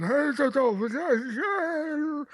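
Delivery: wordless-sounding, high mumble; cotton-mouthed actor. Retold or imitated. Comic mimicking an old actor, in a cotton-mouthed mumble. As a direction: imitate slurring through a mouth full of cotton. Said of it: "if I could put cotton balls in my mouth".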